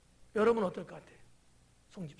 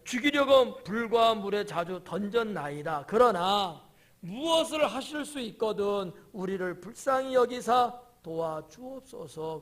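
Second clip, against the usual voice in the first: slow, loud solemn Bible reading; solemn sermon reading of the father's plea; scripture reading; 7 dB louder, slower than usual. Acted. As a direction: intone the verse with weight. Reads the Bible verse aloud.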